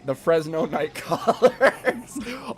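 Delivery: drawn-out team name with a slight Indian lilt; hint of Indian accent. Shown as a demonstration. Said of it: "You did kinda sound a little Indian".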